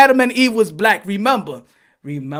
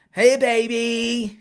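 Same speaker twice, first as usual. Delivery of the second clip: slow seductive greeting; much slower than usual.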